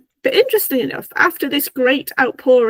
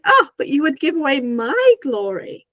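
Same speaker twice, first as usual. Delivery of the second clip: lightly theatrical, pitch lifted on the grand protest; showy, mock-indignant retelling; dramatic Loki; 4 semitones higher than usual. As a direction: put on a touch of showmanship. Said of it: "very dramatically".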